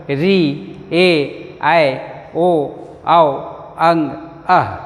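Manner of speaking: हर्षई read the Hindi way as harsh-ai; quick Hindi reading of the same vowel names. Shown as a demonstration. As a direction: contrast with the Bengali names. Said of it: "यदि इसे हम हिंदी में पढ़ें तो कैसे होगा?".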